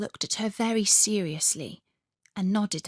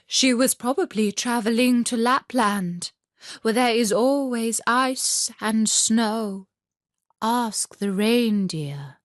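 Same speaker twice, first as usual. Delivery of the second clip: pigeon voice; 3 semitones higher, 4 dB louder than usual. Acted. Pigeons answer.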